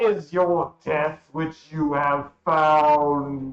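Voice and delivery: very loud, chamber-filling booming voice, drawn-out "found". Game master voicing Asarak answering a player, in a booming Asarak voice. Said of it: "A booming voice seeming to emanate from the whole of the chamber demands".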